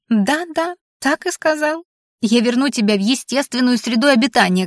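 high-pitched aggrieved creature; wailing creature. A narrator's reading. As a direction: lament in a high voice. Creature wails, quoting the threat.

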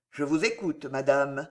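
indifferent. Acted. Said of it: "de la même voix indifférente".

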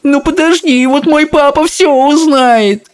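high, slow wailing cry; wailing boy. A narrator's reading. Bruno sees his paws and wails, high and slow. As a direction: wail it like a frightened little boy. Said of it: "заплакал он".

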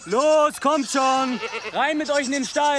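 laut, hoch rufend; Tiere antreiben. Acted. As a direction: treib die Ziegen lautstark an. Ziegen in den Stall treiben. (rufend, Ziegen scheuchend)

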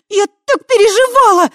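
very high, loud tearful cry; tearful relief. A narrator's reading. Tai telling Voytek how worried she was, tearful. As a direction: let the worry pour out.

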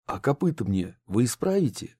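plain reading voice

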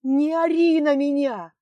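drawn-out furious retort; shouting back. Acted. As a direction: yell right back at him. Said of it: "в ответ крикнула она".

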